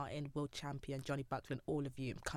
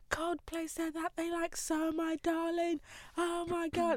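high and slow, gushing the news; replayed thrill on the phone; breathless excitement; 14 semitones higher, 4 dB louder than usual. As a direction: announce it like a dream come true. Telling mum the news.

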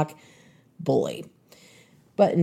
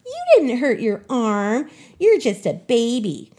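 dismissive taunt; 5 semitones higher than usual. Retold or imitated. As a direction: brush her off with a sneer. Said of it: "she continued to taunt me".

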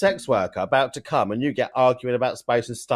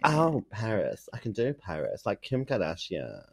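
put-on Valley Girl accent; 7 dB quieter than usual. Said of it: "that little vocal fry".

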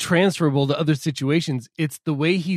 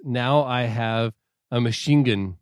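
quoting the line; 3 semitones lower than usual. Retold or imitated. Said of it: "is how he says it".

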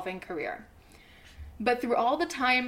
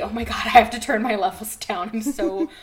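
ordinary delivery

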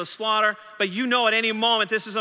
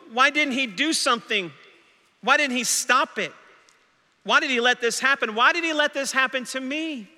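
doubting Thomas; 5 semitones higher than usual. Acted. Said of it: "Thomas has decided".

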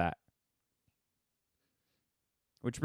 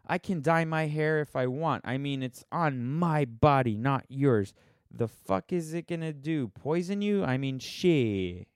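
mock indignant outburst, pitched up; angry commenter; 3 semitones higher, slower than usual. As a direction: imitate someone's defensive, angry message. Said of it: "just someone being angry".

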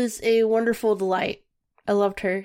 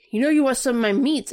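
quick, higher heckler's pitch; imitated heckling; 4 semitones higher, 3 dB louder, much faster than usual. Meat Lady heckles the husband at the fair, quick teasing mimicry. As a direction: playfully heckle a reluctant customer. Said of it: "she heckled you".

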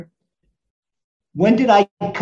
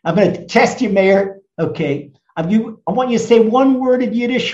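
normal talking voice

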